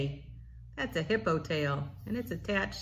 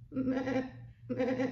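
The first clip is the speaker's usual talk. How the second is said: bleating goat; 7 semitones higher than usual. Pretend. A parent bleating like a goat for a toddler.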